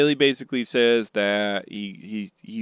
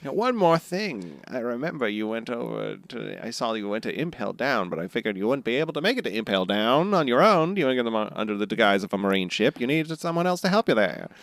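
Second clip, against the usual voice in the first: a hint of a rumpled TV detective; Columbo voice. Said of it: "Columbo references".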